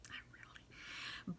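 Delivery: barely audible, drawn-out confession under the breath; hushed admission on the side; whispered aside. Real, not acted. Muttered aside undercutting herself.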